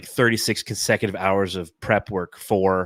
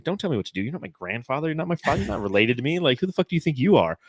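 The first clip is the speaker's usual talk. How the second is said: higher-pitched mock indignation; imitated outrage, pitched up; retold pissed-off teen; 5 semitones higher, faster than usual. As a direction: replay a teenager's angry comeback without shouting. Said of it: "getting so pissed".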